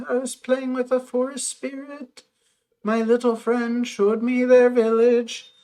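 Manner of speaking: gentle outcast spirit telling its story; lightly voiced shy creature. Voices forest spirit character.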